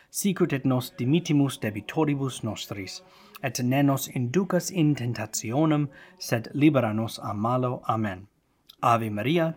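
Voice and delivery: steady, deliberate Latin prayer recitation. Shown as a demonstration. Host leading prayer for patrons in Latin, measured and prayerful. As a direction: lead the prayer word by word so viewers can follow. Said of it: "I'm gonna say it a little slower".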